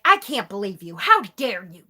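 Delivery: mildly mock-outraged mother; imitated indignation. Imitating mother getting pissed off by text, mock indignation. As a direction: retell an offended mother's rebuke with a touch of heat. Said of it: "she's getting pissed off at me".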